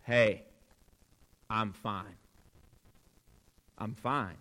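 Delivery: low, slow, medicated Alabama dad; groggy Alabama drawl, soft, with long pauses. Retold or imitated. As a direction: speak low and drowsy like a drawling Alabama father on painkillers. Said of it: "a slow Alabama drawl. Slower, even slower".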